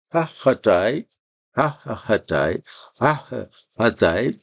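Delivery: "Hachatai" said slowly, three times over; slow repeated drill. Shown as a demonstration. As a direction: drill the word slowly, again and again. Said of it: "on dit que ça avec pa". ("Hachatai" répété lentement)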